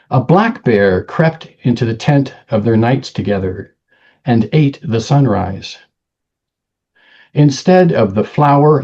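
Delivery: measured poem recital with deliberate pauses; poetry reading. Acted. Poet reading own poem to listeners, measured recital. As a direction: let each image land in separate, paced phrases. Reads second poem aloud.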